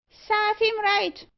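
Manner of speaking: slow, high, loud bird screech; screaming magpie. A narrator's reading. Magpie jeers at the scolded assistant, screaming. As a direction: squawk each word like a parroting bird. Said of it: "screamed Meg".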